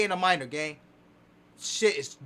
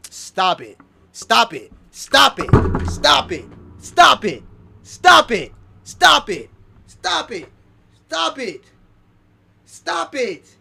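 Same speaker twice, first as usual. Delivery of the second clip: stop it; 5 dB louder, slower than usual. Real, not acted. Repeated exclamation of disbelief.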